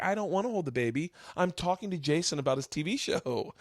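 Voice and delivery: mock annoyed mom. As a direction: lightly voice a mom refusing to be bothered. Acting annoyed mom refusing baby.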